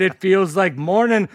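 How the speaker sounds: corny stage-Irish lilt; amateur comic Irish accent; awful Irish accent. Acted. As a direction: keep up a badly faked Irish brogue. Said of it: "for my awful accent".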